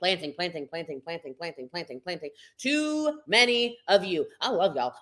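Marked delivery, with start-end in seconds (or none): 0.0-2.3 from soft down to almost silent; fading to whisper. Shown as a demonstration. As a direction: let each planting fade away. Fading repetition.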